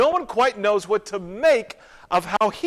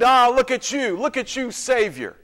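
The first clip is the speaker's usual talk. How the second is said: raised-pitch jeering; mildly acted mockery; mocking crowd; 5 semitones higher than usual. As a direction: taunt him like a heckler in the crowd. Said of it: "they mocked him, they said".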